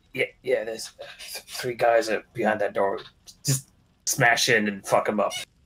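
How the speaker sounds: hushed, whispered speech. After sneaking back from a door, a player's character tells another character, whispering. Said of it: "whisper to him".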